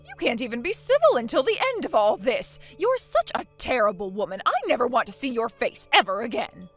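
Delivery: loud, cutting rebuke; angry scolding. Acted. Mother-in-law scolding her daughter-in-law, loud and angry. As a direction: tear into her with contempt.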